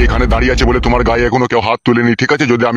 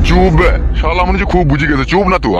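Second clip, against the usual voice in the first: raised-pitch scolding; irritated silencing; 5 semitones higher than usual. Acted. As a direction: cut him off with an annoyed order to shut up. Elder silences angry interrupter.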